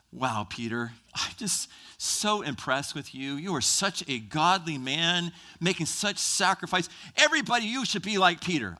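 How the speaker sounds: mock lavish praise. Preacher imagines Jesus praising Peter, in mock lavish praise. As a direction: lay on the admiration, a touch hammed-up.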